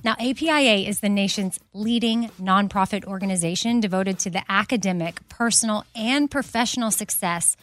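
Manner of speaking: upbeat host-read sponsor spot. Acted. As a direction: sell it like a friendly ad.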